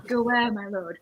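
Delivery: mock American fantasy line; lightly imitated American accent on "my lord". Friend quoting a phrase that fails in American, mock American accent. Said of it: "that don't work in American".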